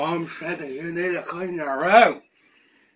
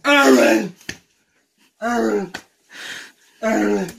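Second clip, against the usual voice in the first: calling out; 2 semitones higher than usual. Real, not acted. Calling sibling awake.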